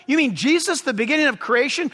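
imitated sceptical question, rising at the end; doubting listener. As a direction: echo it back as a quick, doubting question. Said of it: "You say".

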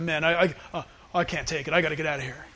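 low, soft, stammering retreat; overwhelmed follower. Acted. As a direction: mumble a half-hearted wish to escape. Acts overwhelmed disciple wanting out.

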